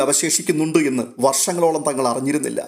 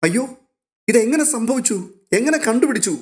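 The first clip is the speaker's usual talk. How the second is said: much higher, eager questions; can hardly believe it, pitch soaring; amazed; 9 semitones higher than usual. A narrator's reading. Rohit amazed at the news from Aleena, excited.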